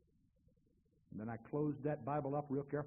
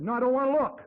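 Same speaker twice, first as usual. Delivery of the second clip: much higher, loud panicked cry; frightened protest; 8 semitones higher, 13 dB louder than usual. Retold or imitated. Scared man refusing to look into hell. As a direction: pull back in terror.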